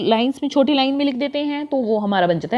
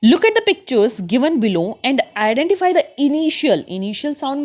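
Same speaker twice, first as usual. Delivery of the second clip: put-on very slow, deliberate reading aloud for children; slow textbook reading; much slower than usual. Teacher reads the passage to her class, very slow. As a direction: read each word out slowly for young learners.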